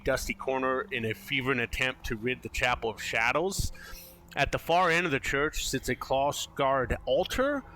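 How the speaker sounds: measured scene-setting read; game master narration. A narrator's reading. Game master describes the church to players, storytelling narration. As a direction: read out the scene with deliberate emphasis.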